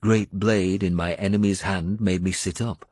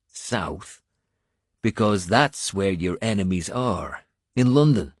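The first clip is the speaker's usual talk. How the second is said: rousing Irish warrior; 2 semitones higher than usual. Acted. Finan refusing to let his lord lie in bed, rousing. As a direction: stir the wounded lord to fight.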